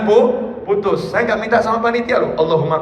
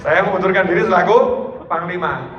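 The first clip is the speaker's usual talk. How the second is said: mock resigning commander; 4 semitones lower, 4 dB quieter than usual. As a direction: hand in your resignation with fake gravity. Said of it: "mungkin kalau kita". (pura-pura panglima mundur dengan nada rendah dan lirih)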